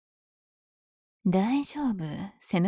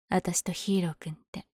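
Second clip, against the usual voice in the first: whisper; 4 dB quieter than usual. Acted. Intimate remark to hero.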